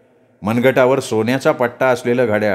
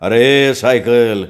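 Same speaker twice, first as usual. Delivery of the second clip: drawn-out call; 4 dB louder, much slower than usual. Acted. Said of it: "ओरडला".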